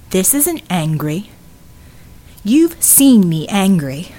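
slow, deliberate warning; controlled menace. A narrator's reading. Vivian to Red with nails in his neck, controlled menace. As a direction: weigh each word as a threat.

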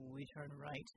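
low, soft whisper. A narrator's reading. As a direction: hush it so nothing hears. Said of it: "he whispered".

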